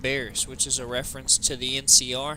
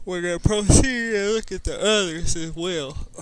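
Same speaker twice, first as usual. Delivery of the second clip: loud, high, booming command to the troops; commanding leader voice; 5 semitones higher, 6 dB louder than usual. Pretend. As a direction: announce it like a war chief rallying men. Rallying the group in-character.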